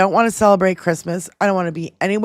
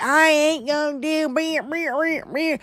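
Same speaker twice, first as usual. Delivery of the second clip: mocking Southern accent trailing into soft gibberish; mush-mouthed mock Southern accent; heavy Southern accent; 4 semitones higher, 6 dB quieter, slower than usual. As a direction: parody a heavy Southern accent, softer than your own. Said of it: "talking with a heavy Southern accent".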